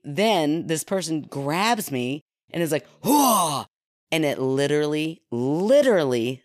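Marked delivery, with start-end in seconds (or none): 3.0-3.7 sudden breathy "whoa" to startle; mock scare cry. Jump scare actor grabs the teller, mock scare cry. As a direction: imitate a jump-scare lunge.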